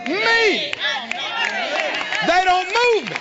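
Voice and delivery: preaching at full force. Shown as a demonstration. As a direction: rise up and roar it. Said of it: "rise up from the inside and say".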